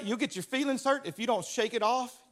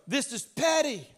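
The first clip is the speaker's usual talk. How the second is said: dismissive shout; 4 semitones higher than usual. Retold or imitated. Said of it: "shake it off and go".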